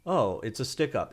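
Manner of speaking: badly acted, no screaming, understated; worst acting ever. Creator mimicking the AI's weak take, deliberately bad acting. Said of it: "like the worst acting ever".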